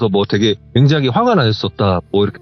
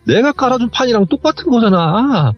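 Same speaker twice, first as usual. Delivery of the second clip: building exasperated protest, acted without full volume; retold angry yelling; 11 semitones higher than usual. Aunt protesting it's her setup, retold yelling rising in pitch. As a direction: voice climbing into a high, strained mock yell. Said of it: "하면서 막 소리를 지르는데".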